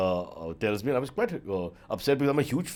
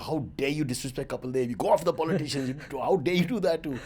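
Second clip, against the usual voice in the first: angry dad; 3 semitones higher than usual. Retold or imitated. Father scolds son for disrespecting Kapil Dev, mock outrage. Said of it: "my dad was really angry".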